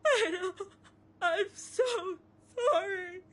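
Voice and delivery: tearful. Acted. Mourning mother apologizes.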